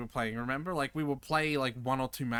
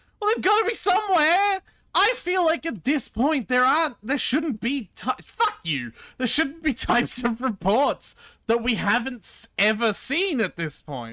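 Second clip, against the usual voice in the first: frustrated shouting, higher and louder; 12 semitones higher, 11 dB louder than usual. Searching for missing reports with another player, yelling in frustration. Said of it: "I need you to stop yelling at me".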